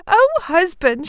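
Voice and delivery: high, drawn-out excited greeting; excited wife. A narrator's reading. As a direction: greet him bursting with amazing news. Wife greets husband with amazing news.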